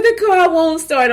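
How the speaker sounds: high, wailing plea; imitating herself crying on the phone; retold crying. Crying to her husband that the car won't start. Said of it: "I'm crying".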